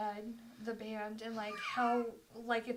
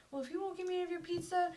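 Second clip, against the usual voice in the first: put-on drunk guy; 5 semitones higher, much faster than usual. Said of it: "He was like".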